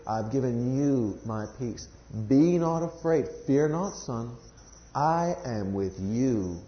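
slow, soft, reassuring words from the Father; quiet comforting God. Pretend. Voicing God's comforting words.

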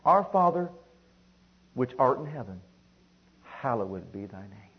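deliberate prayer in falling steps; scripture recitation. Shown as a demonstration. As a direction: proclaim the first words, then ease down reverently.

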